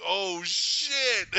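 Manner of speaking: high, loud, hammed-up dismay; shocked outburst. Viewer realising who must be sacrificed, loud comic shock. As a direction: belt it out like a stunned viewer. Retold shocked reaction to film scene.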